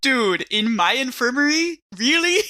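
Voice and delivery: high, incredulous protest; shocked he'd do it here; outraged disbelief. Pretend. Player protests in-character outrage.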